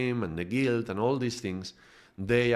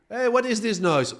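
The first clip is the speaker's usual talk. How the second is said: much higher, louder sudden challenge; startled captain; 12 semitones higher, 5 dB louder than usual. Retold or imitated. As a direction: stop the party with a surprised call. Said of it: "the soul comes out and he's like".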